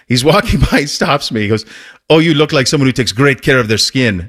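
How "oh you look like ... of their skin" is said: put-on a loose stab at a Swedish accent. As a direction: sell skincare in a bad Swedish accent. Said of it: "that's not exactly a Swedish accent".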